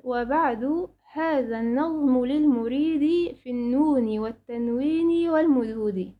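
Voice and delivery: slow, measured chant of a verse; slow Quranic-style verse chanting; poem recitation. Acted. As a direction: recite the line slowly like a memorised poem.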